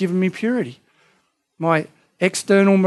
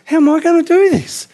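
high, loud desperate plea; exhausted missionary's pleading cry; desperate cry to God; 10 semitones higher, 5 dB louder than usual. Retold or imitated. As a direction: cry out to God in mock despair. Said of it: "you go".

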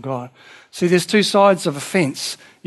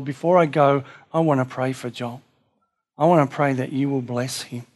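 prayer. Shown as a demonstration. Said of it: "This is how you pray".

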